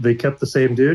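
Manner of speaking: normal talking voice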